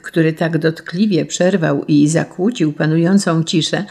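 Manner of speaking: usual speaking voice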